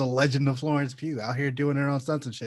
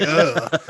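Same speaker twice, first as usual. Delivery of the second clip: disgusted ugh; 5 dB louder than usual. Retold or imitated. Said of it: "then was like".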